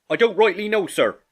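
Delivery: high, loud subordinate sailor; Morgan, cornered. Acted. Morgan answers under interrogation.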